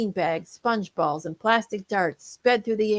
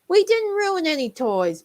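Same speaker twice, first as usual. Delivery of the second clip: barked denial; 10 semitones higher, 4 dB louder than usual. Acted. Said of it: "Blitzen barked".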